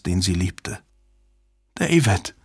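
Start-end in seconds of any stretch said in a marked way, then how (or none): 1.8-2.3 higher, falling, subdued call; stunned calling. A narrator's reading. Susan calls the man she loves, stunned. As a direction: call the name in disbelief. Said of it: "rief wieder und wieder den Namen".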